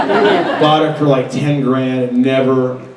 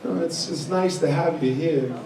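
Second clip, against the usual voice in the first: halting celebrity impression with odd breaks; oddly paused impression; Christopher Walken; slower than usual. Shown as a demonstration. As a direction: deliver it in fits and starts, impersonating the actor. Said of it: "My Christopher Walken's pretty good".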